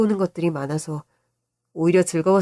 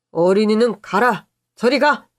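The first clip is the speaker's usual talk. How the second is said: raised, brisk shooing; mock dismissive; 3 semitones higher, 4 dB louder than usual. Uncle shooing his nephew from shaving, mock dismissive. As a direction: shoo the kid away loudly. Uncle shoos child away.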